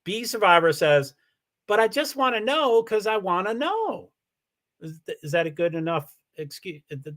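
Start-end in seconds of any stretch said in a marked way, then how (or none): 1.7-4.1 lightly voiced viewer comment, slightly higher; a light go at her inflection; imitating B Survivor's inflection. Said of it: "I'll try to do the voice inflection of B Survivor".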